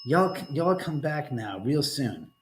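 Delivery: slow, drawn-out Southern hillbilly drawl; a slow, easy Southern hillbilly drawl; slow hillbilly farewell. Retold or imitated. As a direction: stretch each word like a lazy Southern goodbye. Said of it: "That was from the Beverly Hillbillies".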